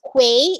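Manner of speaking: quay mispronounced as spelt, "kway"; "kway" for quay, shown as the mistake; wrong pronunciation demo. Shown as a demonstration. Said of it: "is not pronounced as quay".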